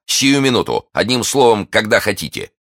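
high, ardent offer; eager readiness. Acted. Gallant eagerly offers instant revenge. (пылко, с готовностью)

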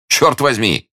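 high, delighted oath; exclaiming. A narrator's reading. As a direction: burst out in amused amazement. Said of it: "воскликнул Д'Артаньян".

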